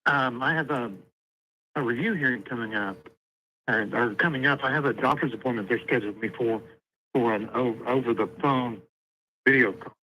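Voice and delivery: caller heard through a phone line; thin phone-line sound; over the phone. Real, not acted. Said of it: "We're talking through the phone".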